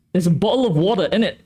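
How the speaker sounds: mock British accent. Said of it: "you're just British?".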